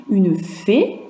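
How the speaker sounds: «une fée» with the voice rising at the end; «fée» said with an upward tune. Shown as a demonstration. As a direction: lift the pitch up on «fée». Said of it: "avec l'accent aigu où ça monte".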